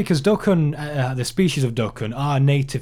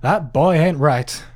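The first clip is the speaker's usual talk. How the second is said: mock drawl; 3 semitones higher, slower than usual. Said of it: "I tell you what".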